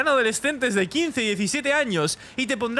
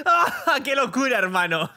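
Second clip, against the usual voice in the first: laughing amazement; 3 semitones higher than usual. Real, not acted. Amazed reaction to game twist.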